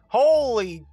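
long, high, loud exclamation; amazed shout. Real, not acted. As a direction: cry out slowly in astonishment. Amazed outcry at a glide.

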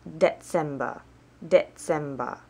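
Dezember with a "ts" sound, "deh-TSEM-ba"; German month name. Shown as a demonstration. Learner finishing the list of months, German pronunciation. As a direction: say Dezember the German way, falling at the end. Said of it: "to do the months".

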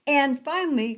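"quit talking" slow, loud, with "quit" hit hard; stress on quit. Shown as a demonstration. Teacher telling online presenters to stop, slow and firm. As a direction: land "quit talking" slowly and firmly. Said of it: "punchline delivery".

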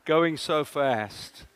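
very slow, drawn-out, musing; slow repeat. Acted. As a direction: let each word hang, savouring the irony.

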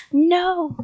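high, loud monster yell. A narrator's reading. Monster tugging at his neck, yelled. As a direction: yell in protest. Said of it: "the monster yelled".

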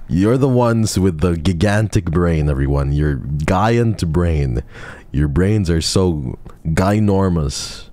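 sarcastic praise. Acted.

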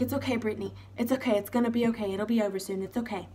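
put-on softly calming a child down; gentle, hushed reassurance; soothing teacher. Retold teacher soothing a panicking child.

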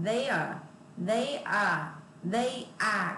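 "They are" with the r curled up; curled tongue on are. Shown as a demonstration. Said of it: "Cái chữ A mà cong lưỡi lên á". (đọc "are" cong lưỡi lên)

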